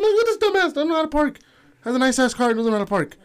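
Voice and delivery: high-pitched mocking put-on; exaggerated high taunting, easing down; mock ridicule. Acting out mocking bad parkers.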